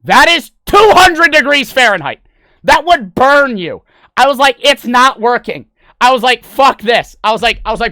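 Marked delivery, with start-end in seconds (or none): 0.0-3.8 high, loud, drawn-out exclamation; alarmed outburst. Retold or imitated. Streamer retelling protest to friend about overheating, alarmed outburst. 4.6-7.1 loud, raised-pitch complaint; exasperated outburst. Retold or imitated. Streamer retelling how he panicked at the broken PC, exasperated outburst.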